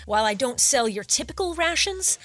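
chatty, upbeat salesman voice; eager shopkeeper. Acted. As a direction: pitch the goods like a friendly bro.

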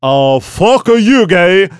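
high, drawn-out slurred retort; hammed-up rock singer scoffing; mock rock singer. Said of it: introduced as what the singer would say.

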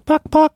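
high-pitched playful buck-buck noise; imitated buck-buck. Co-host punctuating the Hover ad, high mock squawk. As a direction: squawk out two quick high bucks.

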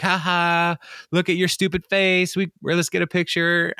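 mock gloating. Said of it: "they're like".

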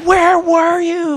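high, slow, teary plea; mock sobbing relief. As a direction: play the overwhelmed husband near tears. Relief after finding his wife.

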